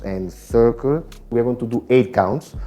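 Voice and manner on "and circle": and circle said slowly, rising at the end; drawn-out step cue. Shown as a demonstration. Teacher guiding the dancers through the circle, slow and drawn out. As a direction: stretch out and circle to fill the beat. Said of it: "Circle, accent, circle, bounce".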